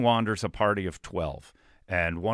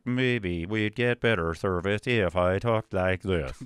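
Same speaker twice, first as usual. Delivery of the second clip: speech computer voice; slower than usual. Retold or imitated. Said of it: "I developed the Stephen A. Hawking impression".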